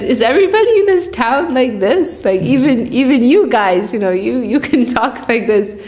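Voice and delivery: mock-amazed scholars asking the town; astonished pandits. Pandits ask the pot seller about the town, astonished. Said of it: "they were very surprised".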